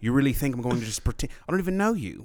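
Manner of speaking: put-on offended act in English accent. Bluffing a doubter who questions the English accent, mock-indignant. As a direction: protest innocently in an English accent. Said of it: "is that accent real".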